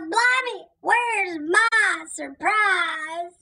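slow, hammed-up whine of a let-down pirate; pirate moaning he got no gift; mock disappointment.

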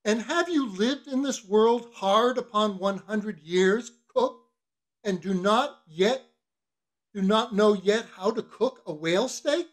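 scolding mate. Acted. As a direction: draw out the reproach to a rising question. Stubb voiced, berating the cook.

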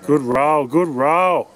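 loud, pleased cheer; excited cheer. Real, not acted. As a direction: urge the ball on. Cheering a putt.

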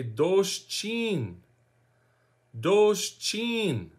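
Doshchin as DOHSH-CHEEN, slowly drawn out; teaching pronunciation. Shown as a demonstration. Teacher showing learners how to say where from, slow DOHSH-CHEEN for Doshchin. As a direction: model "Doshchin" slowly, both vowels long. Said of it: "And then I say".

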